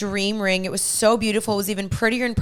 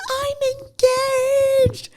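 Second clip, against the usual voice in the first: high, thrilled squeal; excited scream. Retold or imitated. Showing her ring to friends, high excited squeal. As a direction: shriek the news to a friend. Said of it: "and I'm screaming".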